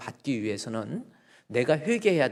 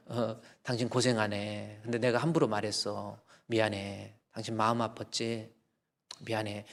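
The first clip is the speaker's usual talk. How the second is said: tender apology; 3 semitones lower than usual. Retold or imitated. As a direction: gently own the hurt before your wife. Husband's sincere apology to wife.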